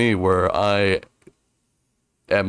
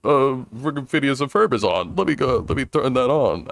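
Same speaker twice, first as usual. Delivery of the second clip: put-on old man voice; 4 semitones higher than usual. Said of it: "Old man voice".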